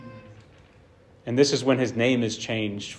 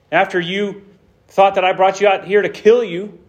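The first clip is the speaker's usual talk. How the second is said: God's booming rebuke; 5 semitones higher, 4 dB louder than usual. Acted. Preacher voices God rebuking Israel.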